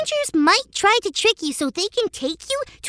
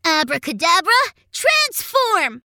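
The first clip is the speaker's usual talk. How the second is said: put-on kids party magician; 4 semitones lower than usual. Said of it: "he chanted his special spell".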